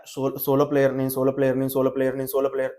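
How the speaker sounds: mock self-praise. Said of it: "అలా ఎక్కిస్తుంది అనమాట".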